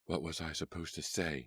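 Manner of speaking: a mildly heated outburst. Acted. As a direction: push back, heated. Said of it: "she cried heatedly".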